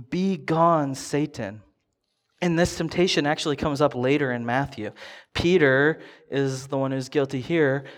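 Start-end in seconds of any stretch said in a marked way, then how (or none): 0.1-1.6 louder, emphatic "Be gone, Satan"; strong command. Retold or imitated. To Satan, a forceful emphatic dismissal. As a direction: bark "Be gone" like an all caps text. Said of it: "this is strong".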